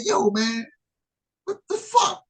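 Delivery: high mock cry of shock. After the friend's hard serve, a high mock cry of shock. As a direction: yelp it, stunned by the serve. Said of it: "I said".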